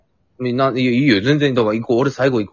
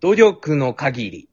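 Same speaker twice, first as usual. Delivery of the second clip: slow recitation; 2 semitones lower, much slower than usual. Acted. Reciting haiku line slowly.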